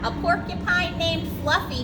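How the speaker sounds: mock howl of laughter. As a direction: rhino mocking the porcupine's name. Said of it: "he howled".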